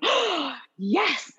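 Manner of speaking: a high, eager yes after a gasp; light up at the offer of ice cream; enthusiastic yes. Shown as a demonstration. Mom acting thrilled to be offered ice cream.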